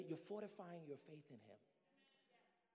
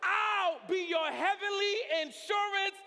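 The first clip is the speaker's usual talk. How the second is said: loud, high, rising preacher's cadence; full-force preaching; 12 semitones higher, 13 dB louder, slower than usual. Acted. Preacher calling to his congregation, full force.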